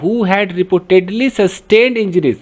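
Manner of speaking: very slow, clear reading; drawn-out teacher reading. Shown as a demonstration. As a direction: read the clause out for students. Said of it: "अब एक clause बना रहा है".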